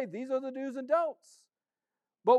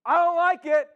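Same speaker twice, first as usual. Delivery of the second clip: stubborn complaint; 7 semitones higher, 10 dB louder than usual. Acted. Pastor voicing stubborn sinner.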